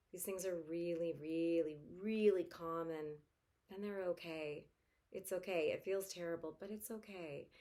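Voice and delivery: calm validating voice; mother comforting a scared child; reassuring parent. Shown as a demonstration. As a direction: soothe and validate. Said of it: "I would say".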